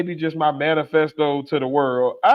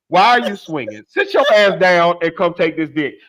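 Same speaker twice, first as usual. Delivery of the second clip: mock exasperated rant; 3 semitones higher than usual. Ranting at a partner in bed.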